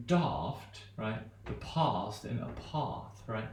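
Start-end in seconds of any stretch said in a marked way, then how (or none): 0.1-0.8 "daft" with a long open back ah; broad A. Shown as a demonstration. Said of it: "so I can say, for example". 1.4-3.2 "past" and "path" with long open ah; Queen's English "past" and "path"; broad A. Shown as a demonstration. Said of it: "so I can say, for example".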